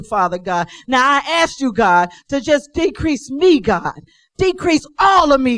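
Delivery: earnest public prayer, each plea punctuated with an address to God; fervent prayer. Real, not acted. Preacher praying aloud before the sermon, fervent prayer. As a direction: plead in rolling, repeated petitions, then settle down.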